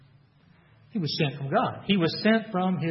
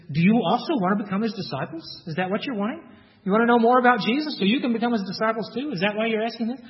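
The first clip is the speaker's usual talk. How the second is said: sarcastic; 4 semitones higher than usual. Retold or imitated. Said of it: "maybe a little sarcastically".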